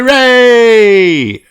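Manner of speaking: high, loud joyful cheer; loud high cheer of the whole family; cheering hooray. Acted. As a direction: cheer it out with the crowd. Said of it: "everyone cheered".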